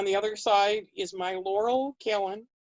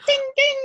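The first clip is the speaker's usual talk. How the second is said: high little bell ding; ding of shine; 5 dB louder than usual. Retold or imitated. Cleaned brass medallion shining up, bright ding. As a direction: imitate a sparkle ringing out. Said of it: "damned if it didn't go".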